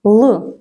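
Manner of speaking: Л said dark and unsoftened; a lone hard Л, no y-glide. Shown as a demonstration. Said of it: "Так, твердий".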